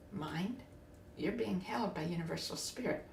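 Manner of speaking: soft, tender reassurance to her own mind; lovingly. Retold or imitated. To her own anxious mind, soft and loving. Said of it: "I lovingly said".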